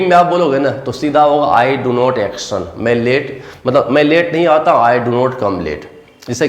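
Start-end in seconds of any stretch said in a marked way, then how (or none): 1.5-2.6 slow teaching demo. Shown as a demonstration. Teacher models negative formula. 4.8-5.9 slow teaching demo. Shown as a demonstration. Teacher models the sentence slowly.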